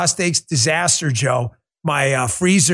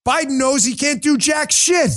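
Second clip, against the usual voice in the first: slow, high shouted jab; 9 semitones higher than usual. Real, not acted. Host ranting at Biden, shouting slowly. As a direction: yell it out in disgust. Heated rant about Biden.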